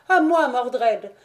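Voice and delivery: a sorceress's enraged cry; furious call. A narrator's reading. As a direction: call Mordred in fury. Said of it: "avec une fureur croissante".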